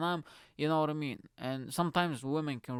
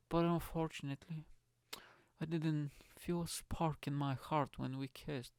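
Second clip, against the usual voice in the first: mock love-letter voice; 2 semitones higher, 5 dB quieter than usual. Man reading out her disappointed text, mock-sentimental. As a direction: draw out the sappy words with pauses. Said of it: "who the fuck talks like that?".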